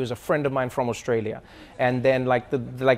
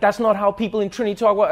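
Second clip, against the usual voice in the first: put-on slightly raised Trinidadian accent; 5 semitones higher than usual. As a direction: object lightly in a Trinidadian accent. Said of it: "people from Trinidad, they were like".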